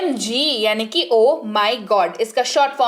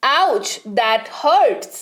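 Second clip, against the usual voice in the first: slow, drawn-out ouch; slow pained ouch; mild pain; much slower than usual. Shown as a demonstration. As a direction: wince through it. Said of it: "तीखी सी लगे".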